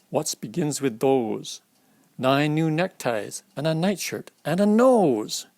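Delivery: lilting picture-book read-aloud; reading to children. A narrator's reading. Adult reading an ABC book to a child, lilting. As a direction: read it out for a child, sing-song.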